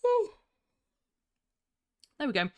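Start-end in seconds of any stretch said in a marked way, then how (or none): 0.0-0.3 tired yawn. Real, not acted. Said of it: "I'm gonna yawn".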